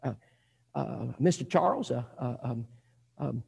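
soft, low, halting mumble to oneself; acting out a flustered novice visitor; nervous thinking aloud. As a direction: fumble for the words, trailing into ums. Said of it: "Betty begins to think".

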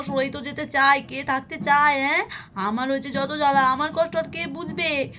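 mild mock weeping complaint; understated acted crying; tearful lament. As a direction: lament as a worn-out, upset wife. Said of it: "বিছানায় গিয়ে উপর হয়ে কাঁদতে থাকে".

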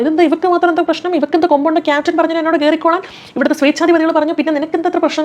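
ചെറിയ അനുകരിച്ച ബഹളം; retold loud outburst. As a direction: pitch up and push it like a retold fight. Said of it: "ഭയങ്കരമായിട്ട് ബഹളം വയ്ക്കുന്നു".

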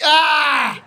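lightly faked sobbing lament; a touch of over-the-top grief from the boss; mock crying. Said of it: "He's crying his ass off".

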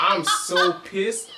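slow, laughing through the words. Real, not acted. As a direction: drag it out, cracking up. Repeats it while laughing.

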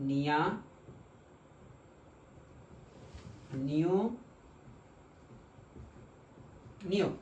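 নিয়া, নিউ, নিও each said alone after a long pause; slow syllable demo. Shown as a demonstration. Teacher modelling the new syllables, slow and deliberate. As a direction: model every syllable for students to repeat. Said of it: "তাহলে এটার pronunciation হবে".

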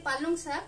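पालंग साग with ng in place of the k of palak; Bengali-style pronunciation. Shown as a demonstration. Bengali cook explains her family's word to viewers, पालंग साग with a nasal ng. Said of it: "हम लोग बंगाली है तो हम लोग बोलते हैं".

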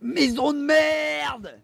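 slow shouted curse. Acted. Yells at a house passed.

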